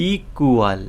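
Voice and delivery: "ইকুয়াল" drawn out in parts, ই, কু, য়াল; split into syllables. Shown as a demonstration. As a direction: pull the syllables of "ইকুয়াল" apart for the class. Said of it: "এই সিলেবেলে যদি stress পড়ে". ("ইকুয়াল" syllable ভেঙে টেনে বলা)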